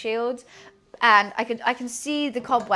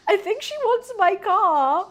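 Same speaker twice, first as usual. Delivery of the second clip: mock aside; 7 semitones higher, 3 dB louder than usual. Laughing aside about the neighbour.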